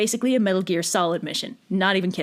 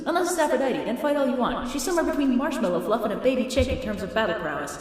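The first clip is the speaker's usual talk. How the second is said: mock Athena; 2 semitones higher than usual. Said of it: "So she pops down to Diomedes like".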